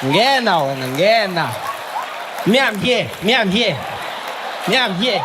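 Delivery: casual South African banter, mild; dodging being picked, lightly played; lightly voiced reluctant player. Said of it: "black people are like".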